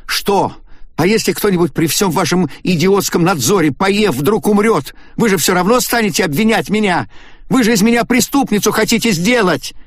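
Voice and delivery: very high, loud screaming; hysterical shout. A narrator's reading. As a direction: scream the accusation. Истерика Агаты продолжается. (Агата в истерике обвиняет остальных)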